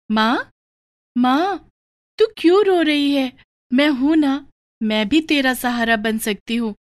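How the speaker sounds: put-on a young girl soothing her crying mother; little daughter consoling. Daughter comforts her weeping mother.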